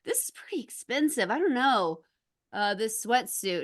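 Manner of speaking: waver over the price; hesitant customer. Retold or imitated. Imitating Albert Brooks hesitating at price.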